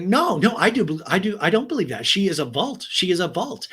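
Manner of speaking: stumbling, insistent imitation of someone rattled; flustered. Cast member defending her confidante, flustered. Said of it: "Shannon already getting pre-flustered".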